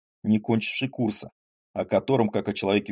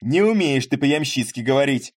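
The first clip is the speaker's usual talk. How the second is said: teasing shout; 4 semitones higher, 4 dB louder than usual. Acted. Landowner keeps teasing loudly.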